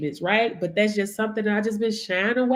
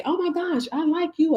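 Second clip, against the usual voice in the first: a higher, lightly voiced admirer; gushing admirer; 8 semitones higher than usual. Host imitates people who will like her. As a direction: gush at her like a new fan. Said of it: "that say".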